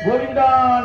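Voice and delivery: Govinda called out, drawn out; emphatic devotional call. Shown as a demonstration. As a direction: call the holy name out firmly to demonstrate. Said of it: "అంటాం గట్టిగా ఒకసారి".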